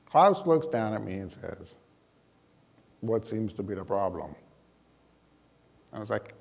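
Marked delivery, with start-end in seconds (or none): 3.0-4.4 lightly voiced Terminator, a bit lower; a hint of a flat robot Terminator; a big exchange student, a mild Terminator impression. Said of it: "Klaus spoke like the Terminator".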